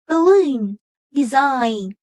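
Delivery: "Balloon, design", each stressed on the second syllable; weak starts, then strong LOON in "Balloon" and SIGN in "design". Shown as a demonstration. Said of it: "the stress is on the second syllable".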